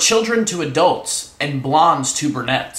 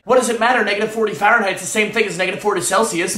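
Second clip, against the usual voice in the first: higher-pitched triumphant retort; acted comeback; 4 semitones higher than usual. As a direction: fire back the know-it-all answer. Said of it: "you get to say".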